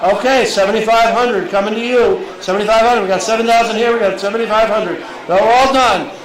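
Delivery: brisk, rising auction calling; auctioneer calling. Acted. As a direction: keep the bids moving. Auctioneer closing the bidding.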